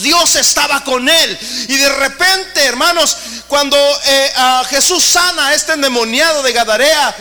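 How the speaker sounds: high, loud full-force sermon; fiery preaching. Acted. Preacher proclaiming Jesus' miracles to the congregation, fiery and loud. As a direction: preach it to the back row.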